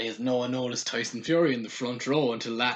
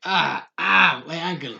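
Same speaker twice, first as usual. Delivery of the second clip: hammed-up cries of hurt, higher at first; mock pain; 3 semitones higher, 5 dB louder, slower than usual. Fan mimicking a wrestler selling an ankle knock, mock pain. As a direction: imitate someone overselling an injury. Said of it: "it was just him trying to sell".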